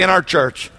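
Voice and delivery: "our" stressed, falling at the end. Shown as a demonstration. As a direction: lean on "our" and let it fall. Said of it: "Say that".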